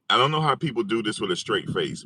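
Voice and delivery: a bit calmer, still amused; trying to settle down; amused disbelief; still fighting laughter. Real, not acted.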